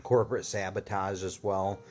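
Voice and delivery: hushed conspiratorial whisper. Acted. Telling listeners about corporate espionage, a secretive whisper.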